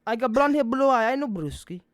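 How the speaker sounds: mock broken Russian accent; imitating a terrible Russian accent; bad Russian accent. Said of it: "that's legitimately what it sounded like".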